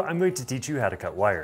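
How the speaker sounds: ordinary talk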